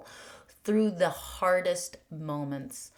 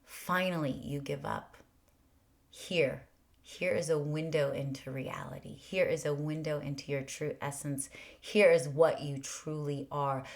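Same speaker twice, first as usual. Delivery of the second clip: gentle voice of grace. Retold or imitated. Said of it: "grace comes through and is like".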